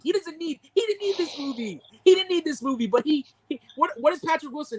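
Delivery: high-pitched, exasperated insistence; worked-up protest; indignant rant. Real, not acted. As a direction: argue it indignantly, pitch pushed up. Heated rant defending an actor.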